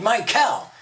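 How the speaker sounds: high, loud cry. Acted. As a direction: call out to him loudly. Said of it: "Kath he cried".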